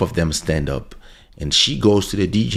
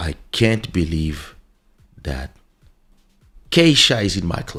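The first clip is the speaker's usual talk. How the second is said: put-on strong, heavy Eastern European accent. Retelling what a stripper said on meeting her: imitating a big Eastern European accent. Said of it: "with a big Russian accent or East Europe accent".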